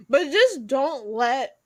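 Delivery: chewing ice while talking; words round a mouthful of ice; mouth full. Real, not acted. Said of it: "I'm chewing on ice".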